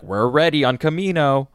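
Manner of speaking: a mock Ventress calling in to report; Ventress impression. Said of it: "that's my Ventress impersonation".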